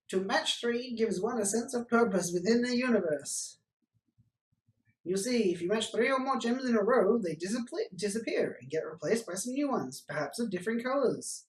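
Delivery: a hint of a grandiose alien salesman. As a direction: sell the game like a grand envoy. Alien pitches a puzzle game.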